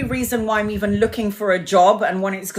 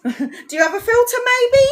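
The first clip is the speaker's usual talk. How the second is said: high, laughing request; laughing plea; 14 semitones higher than usual. Retold or imitated. Asking the fan for a filter, high and laughing. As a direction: laugh it out, half embarrassed. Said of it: "And then I'm like".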